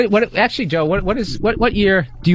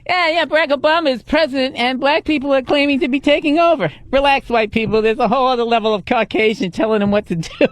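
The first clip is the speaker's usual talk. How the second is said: much higher put-on joke voice; hammy high-pitched late-night host; monologue host delivery; 8 semitones higher than usual. Comic doing one more awful Obama joke, hammed-up monologue voice.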